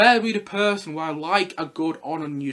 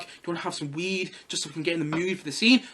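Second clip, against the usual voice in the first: low-key aside, softer than the commentary; imagined sly offer; 4 semitones lower, 6 dB quieter than usual. Pretend. Actor offering a co-star weed before the scene, quietly casual. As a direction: toss it off quietly.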